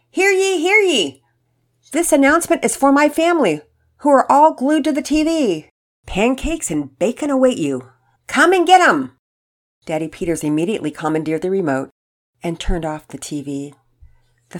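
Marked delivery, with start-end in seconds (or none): 0.1-9.2 loud, high proclaiming yell; town crier announcement. Acted. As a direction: call the family like a herald. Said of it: "Mama Peters yell from the kitchen".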